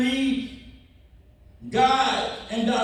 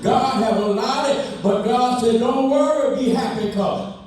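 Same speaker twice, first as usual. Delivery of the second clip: preaching at full force. Acted. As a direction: preach it out to the congregation.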